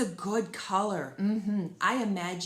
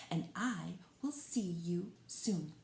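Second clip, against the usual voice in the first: whisper; 6 dB quieter than usual. Real, not acted. Sign-off to the viewers.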